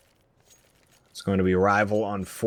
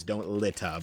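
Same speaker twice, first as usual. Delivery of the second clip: Boston r-less "litter", ending in "ah"; Boston accent; 4 dB quieter, slower than usual. Retold or imitated. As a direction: read the sign in mock Boston, "littah". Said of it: "A H instead of E R".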